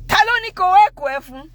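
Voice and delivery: high, loud imitated outburst; dad losing it. Dad confronting the gateman over the door, enraged. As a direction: demand it like an irate father. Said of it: "I never forget the words".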